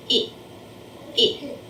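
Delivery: "I" punched hard with the nose wrinkled; punched short i. Shown as a demonstration. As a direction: punch the "I" sound twice. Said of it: "wrinkle up their noses and punch the I sound".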